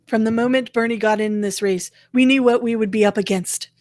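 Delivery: mock campaign read; a hint of a pompous speech; reading Bernie's words in a mocking voice. Mocking Bernie's campaign email to her friend, lightly voiced. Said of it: "He goes and he's complaining".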